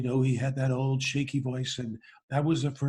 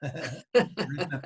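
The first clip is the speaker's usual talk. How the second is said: laughing repeat; much slower than usual. Retold or imitated. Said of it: "license to say".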